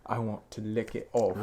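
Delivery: put-on British accent. Imagining an actress making a lewd offer, British accent. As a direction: imitate an English actress, deliberate British vowels. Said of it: "that British accent".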